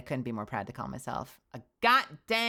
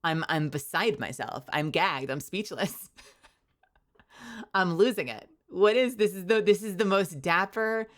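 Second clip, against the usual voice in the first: shocked; 3 semitones higher than usual. Real, not acted. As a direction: lose it over the fan art. Reacting to dapper fan art.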